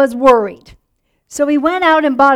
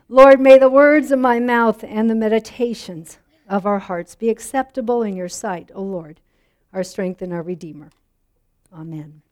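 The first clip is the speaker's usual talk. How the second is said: prayer; 3 semitones lower than usual. Acted. Pastor prays before the sermon, growing hushed.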